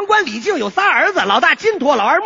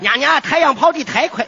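put-on Baoji accent. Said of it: "这怎么又有一个宝鸡人呢".

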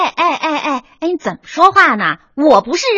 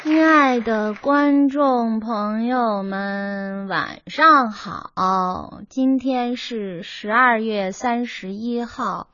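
1 joyless rote recital; 3 semitones lower, 4 dB quieter, slower than usual. Acted. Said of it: "可是您认真点儿行不行啊".

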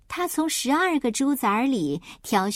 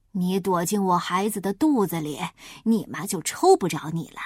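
a touch lower, sly reassuring wolf; a wolf hiding his plan; 4 semitones lower than usual. Acted. Wolf slyly reassures the piglet, lightly lower.

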